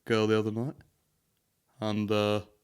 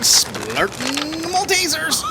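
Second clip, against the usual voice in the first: laughing disbelief; 7 dB louder, slower than usual. Real, not acted.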